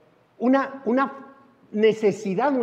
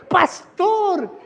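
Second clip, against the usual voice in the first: higher, lightly voiced adoring old lady; church ladies; 9 semitones higher, 4 dB louder than usual. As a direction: call out Pastor like a doting old lady. Voicing the church ladies calling him.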